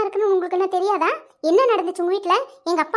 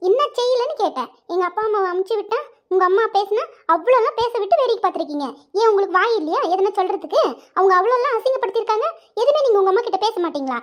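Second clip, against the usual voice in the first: raised, bitter accusing voice; angry accusation. Acted. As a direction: hurl the blame at him. Lovers' phone quarrel. (காதலனிடம் குற்றம் சாட்டும் கோபக் குரல்)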